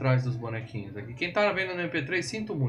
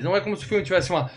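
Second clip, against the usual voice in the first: exasperated outburst; 6 semitones higher than usual. Real, not acted. Exasperated outburst about plot.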